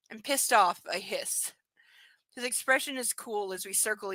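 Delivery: reading the novel aloud; lightly performed book reading; story narration. Acted.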